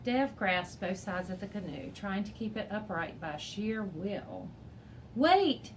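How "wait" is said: high, loud call; urgent loud call to teammates. A narrator's reading. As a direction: shout to grab their attention. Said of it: "he called out".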